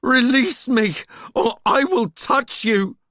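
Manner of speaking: loud, high threat; threatening shout. A narrator's reading. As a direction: shout the threat over the crowd. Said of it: "Her shout cut through the crowd's noise".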